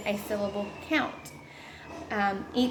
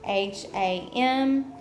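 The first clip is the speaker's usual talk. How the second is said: letters spelled one by one, slowly; slow classroom spelling of H A M; slower than usual. Shown as a demonstration. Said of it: "so for hammer would be".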